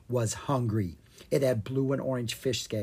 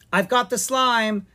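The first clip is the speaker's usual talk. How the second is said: calling out; 9 semitones higher, 6 dB louder than usual. Acted. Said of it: "Ella called out".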